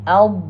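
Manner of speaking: "Al-" closed on a held Arabic Dad; articulation demo. Shown as a demonstration. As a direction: press "Al-" into a sustained heavy d sound. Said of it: "Look at here".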